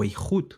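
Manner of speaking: "Eihud" with a throaty, scraped h; Hebrew guttural demo. Shown as a demonstration. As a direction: say "Eihud" carefully, stressing the final oo. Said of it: "porque es una G".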